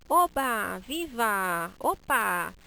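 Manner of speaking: loud, excited Oba, Viva, Opa; joyful cries. Shown as a demonstration. Teacher contrasting joyful cries with flat reading. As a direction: shout them with joy. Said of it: "Não tem como eu falar de alegria".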